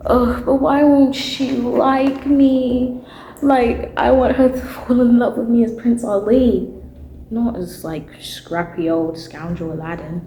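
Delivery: pleading for a shoulder to cry on, half laughing; whiny lovesick Aladdin. Retold or imitated. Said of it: "He's like".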